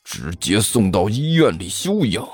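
vicious order. Acted. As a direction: order the beating with cold spite. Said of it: "恶狠狠地说道". (低沉缓慢地恶狠狠下令)

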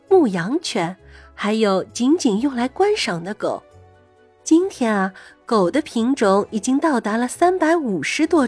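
put-on gentle storybook voice for kids; reading to a toddler. A narrator's reading. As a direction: read it sweetly to a little child. Reads a dog story to kids.

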